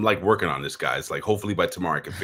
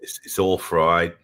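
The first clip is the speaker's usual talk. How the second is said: slow put-on Australian accent; Aussie accent; 4 dB louder, slower than usual. American host insists to co-host, slow mock Aussie accent. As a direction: draw it out like an Aussie. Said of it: "You do a pretty good Aussie accent".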